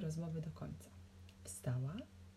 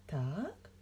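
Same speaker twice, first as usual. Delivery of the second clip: cold, restrained query; understated menace; through clenched teeth; 3 semitones lower than usual. A narrator's reading. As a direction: say it tightly, holding back anger. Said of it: "wycedziła pani konduktor".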